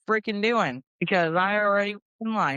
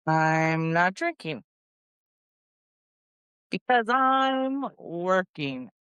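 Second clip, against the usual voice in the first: hoity; much slower than usual. Acted. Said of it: "a little hoity".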